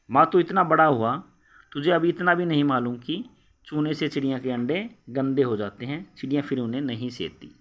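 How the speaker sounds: rising angry rebuke; loud scolding. Acted. Mother rebukes Keshav for touching the eggs, loud angry scolding. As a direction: scold him loudly at the start.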